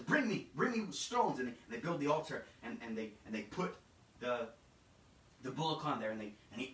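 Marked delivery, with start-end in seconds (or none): 0.0-1.4 urgent, raised and slow demand; hurried king ordering, louder; Saul urgent. Acted. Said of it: "he quickly says".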